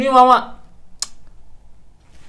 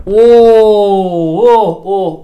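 delighted discovery; 4 dB louder, much slower than usual. Real, not acted. Discovers the solution.

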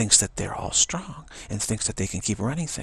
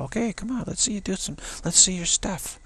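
mocking taunt; 10 semitones higher than usual. Taunting the ego to show off.

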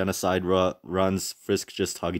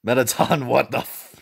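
shocked; 6 semitones higher, 4 dB louder than usual. Real, not acted. Shocked reaction at the screen.

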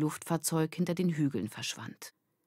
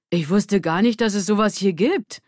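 put-on higher, louder girl voice; amazed girl; 5 semitones higher, 7 dB louder than usual. Mareike amazed at the hidden theater. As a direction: sound impressed.

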